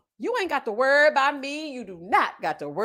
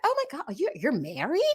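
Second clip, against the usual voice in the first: mock shocked nurse; 4 dB quieter than usual. Nurse, shocked to learn she's married, mildly surprised. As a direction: act the nurse's surprise, lightly. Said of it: "she was so shocked".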